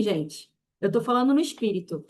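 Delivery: ordinary talk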